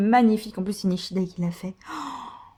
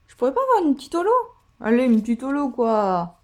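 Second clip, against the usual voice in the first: pleading. Real, not acted. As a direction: beg for a little treat. Begging the packs for a holo.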